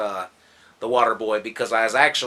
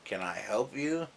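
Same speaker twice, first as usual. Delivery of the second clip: deadpan quote; 11 dB quieter than usual. Retold or imitated. Voices deadpan roommate in retold scene.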